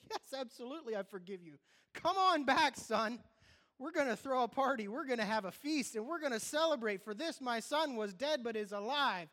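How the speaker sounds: father throwing a party for his son, high and loud; joyful father. Acted. Father welcomes son, preached.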